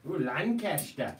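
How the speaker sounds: a slow, hammed-up Lancashire accent on "Lancaster"; mock English accent. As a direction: drawl "Lancaster" in a bad northern English accent. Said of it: "I don't know what that accent was".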